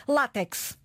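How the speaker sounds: látex with the stress on the first syllable, LÁ-tex; látex, stressed on LÁ as the correct form; correct pronunciation. Shown as a demonstration. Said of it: "a pronúncia correta".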